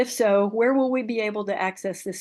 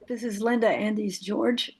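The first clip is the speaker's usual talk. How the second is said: losing her voice, hoarse; rough, worn-out hoarse voice. Real, not acted. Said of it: "I'm losing my voice this evening".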